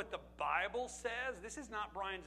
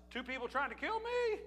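king, higher and louder, outraged at a plot; alarmed king; 4 semitones higher, 5 dB louder than usual. Retold or imitated. King Ahasuerus hearing of the plot, alarmed and ordering. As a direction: bark it like a startled king ordering a hanging. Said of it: "all he paid attention was".

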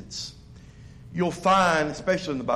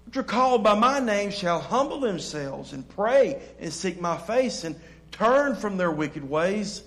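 verse read out with raised preaching force; scripture reading. Acted. Pastor reading the promise to his church, preaching. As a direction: proclaim the verse to the congregation.

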